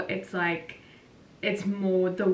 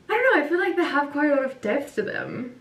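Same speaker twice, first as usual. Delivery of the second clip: excited rant; 7 semitones higher, 5 dB louder, faster than usual. Real, not acted. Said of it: "I had to rant about this".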